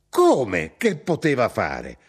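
slow, emphatic outraged echo; indignant, drawn-out comeback; incredulous retort. Acted. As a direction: throw the question back in exasperation. Mother throws son's question back.

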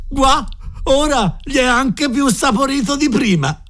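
high-pitched, drawn-out mirth; amused exclamation after laughing. A narrator's reading. Scullery boy wrings his cap into the soup, greatly amused. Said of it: "si dette in una grande risata".

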